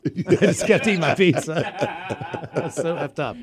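high laughter breaking up the words; losing it at his own story; laughing. Real, not acted. Co-host cracking up at his own pizza story, laughing through the words.

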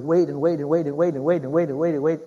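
rolling sing-song repetition; endless dithering. Acted. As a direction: drag the repeats out in an unbroken chain. Mimics people who endlessly delay deciding.

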